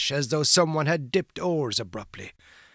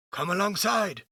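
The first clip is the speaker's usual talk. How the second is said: exclaiming; 7 semitones higher than usual. A narrator's reading. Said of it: "exclaimed Will".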